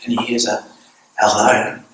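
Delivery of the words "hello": lightly voiced little kid on the phone; a hint of a small child's hushed hello; very young child. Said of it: "answered by this kind of very young voice".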